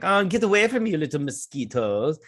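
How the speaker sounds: high, loud mock swatting off a pest; dismissive taunt. The Enterprise crew brushing off a tiny attacking ship, high mock disdain. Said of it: "They're like".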